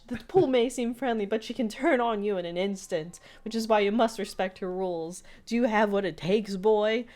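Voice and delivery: lightly voiced solemn warning; hint of an intense boss testing a recruit; stern pool boss.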